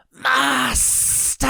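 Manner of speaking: high, loud desperate shriek. A narrator's reading. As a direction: shriek for help.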